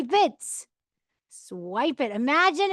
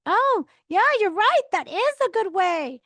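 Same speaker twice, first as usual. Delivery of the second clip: high, emphatic show of agreeing; louder, pitched-up acted appreciation; enthusiastic agreement; 8 semitones higher, 5 dB louder than usual. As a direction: concede as if delighted by the idea. Models agreeing pleasantly with critical spouse.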